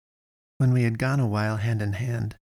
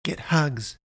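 much higher, cheery call; 6 semitones higher, slower than usual. A narrator's reading. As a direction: shout it to the runners. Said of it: "she called".

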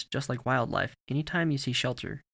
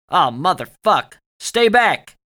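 loud, high urgent yell; alarmed shout; 6 semitones higher, 12 dB louder, slower than usual. A narrator's reading. Soldier warning off an approaching man, shouted. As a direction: yell it hard, pitch leaping up. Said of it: "Dugan shouted".

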